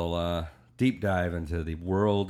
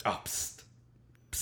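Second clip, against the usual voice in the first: Ed Bassmaster impression; 11 dB quieter, slower than usual. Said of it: "is always like".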